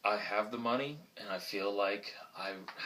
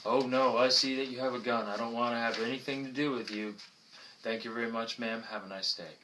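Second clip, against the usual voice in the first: higher, louder mock alarm at the gun; alarmed passerby; 3 semitones higher, 4 dB louder than usual. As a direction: play a startled stranger backing off. Acted passerby refusing flyer.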